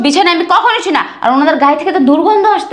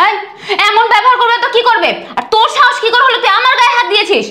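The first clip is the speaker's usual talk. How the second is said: high, laughing sneer; scornful laugh; 7 semitones higher than usual. Acted. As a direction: laugh him off with contempt. Bride scoffs at husband's plea.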